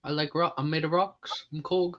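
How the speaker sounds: soft, lightly voiced gentle rock man; a hint of Korg, softly and simply; Korg impression. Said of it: "I love doing a Korg impersonation".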